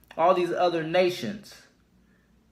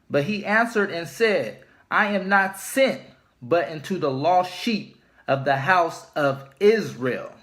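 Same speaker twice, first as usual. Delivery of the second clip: solemn scripture reading. Acted. Reads Jesus' words from Bible.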